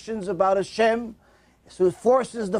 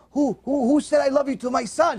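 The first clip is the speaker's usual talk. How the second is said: high-pitched, eager questioning; excited mother; 6 semitones higher than usual. Retold or imitated. Mother overhears a girl loving her son, excited and high. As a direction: burst out with delighted curiosity, pitched up. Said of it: "She's excited".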